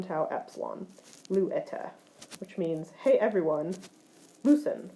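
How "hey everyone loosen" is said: mock group command. Shown as a demonstration. Teacher voices a group command.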